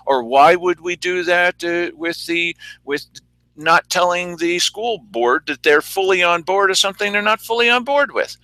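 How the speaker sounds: lightly mimicked official reassurance, pitch lifting; mock commissioners. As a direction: plead innocence as a mock official. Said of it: "what the commissioners are trying to tell you".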